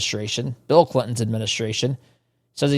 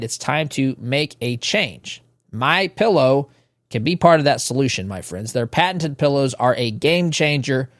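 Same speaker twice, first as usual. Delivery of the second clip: smooth sponsor read in the host's own voice. Acted. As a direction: sell the pillow like a friendly pitchman. Host reads a sponsor ad.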